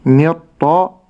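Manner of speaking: ني with a clearly voiced i kasra. Shown as a demonstration. Teacher demonstrating the kasra on ني. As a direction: sound the kasra of ني fully. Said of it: "وحقق الكسرة بتاعت النون".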